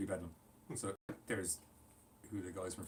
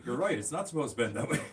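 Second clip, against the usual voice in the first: louder, higher horrified repeat; 4 semitones higher, 8 dB louder than usual. Real, not acted. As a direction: cry it out in disbelief.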